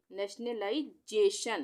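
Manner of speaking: नेशनलाइजेशन said slowly, part by part; demonstrating pronunciation. Shown as a demonstration. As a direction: sound out नेशनलाइजेशन slowly for learners. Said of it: "इसको हम कैसे पढ़ेंगे". (नेशनलाइजेशन धीरे-धीरे, हिस्सों में बोलकर)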